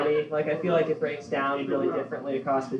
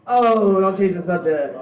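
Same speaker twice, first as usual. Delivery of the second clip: louder mobster snapping back; hammed-up mob boss deflecting; Tony Soprano; 3 semitones higher, 6 dB louder than usual. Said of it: "What would Tony Soprano say here?".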